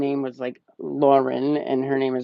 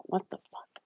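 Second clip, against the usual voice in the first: mock scared heroine. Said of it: "she's like".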